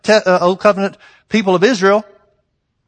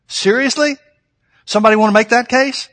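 incredulous; 5 semitones higher than usual. Real, not acted. Incredulous rhetorical challenge.

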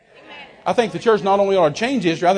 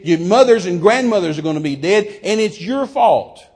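angry accusation; 4 dB louder than usual. Retold or imitated. Guest blaming preachers for a dying nation, angry accusation. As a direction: lay the blame with raised force.

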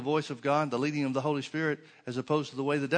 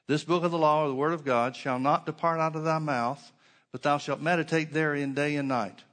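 louder, emphatic Bible verse reading; scripture reading; 4 dB louder than usual. Acted. Preacher reading God's command to Joshua to the congregation, emphatic scripture reading. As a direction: read the verse out firmly.

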